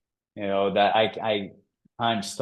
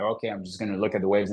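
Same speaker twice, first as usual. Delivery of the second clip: frustrated; 2 semitones lower, 3 dB quieter, faster than usual. Retold or imitated. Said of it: "I kind of frustrated".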